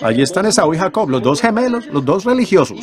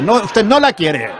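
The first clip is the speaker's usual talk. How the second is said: rebuking shout; 8 semitones higher, slower than usual. Real, not acted. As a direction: hammer the words home slowly. Preacher rebuking the boss.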